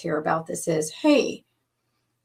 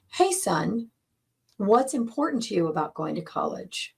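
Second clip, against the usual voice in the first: kind asking. Shown as a demonstration. Coach shows a dad asking his son kindly, gentle question. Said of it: "Do you hear the difference?".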